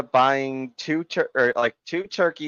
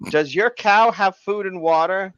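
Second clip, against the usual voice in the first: high, louder nosy lady; imitated yell; 8 semitones higher, 5 dB louder than usual. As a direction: holler it over like a complaining passer-by. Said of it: "she yells at us".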